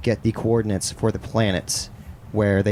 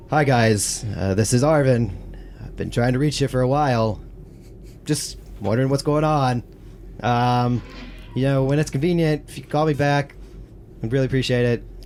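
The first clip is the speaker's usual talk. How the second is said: lightly voiced hesitant leader on voicemail; slightly raised voice, awkward pauses between phrases; Arvin; 3 semitones higher than usual. Game master plays a voicemail left for the crew, mildly awkward. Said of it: "attempt a real voice for him".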